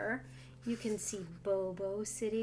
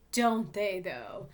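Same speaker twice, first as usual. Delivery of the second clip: cheerful grin; 3 semitones lower, 4 dB louder, slower than usual. Acted. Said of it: "with a cheerful grin".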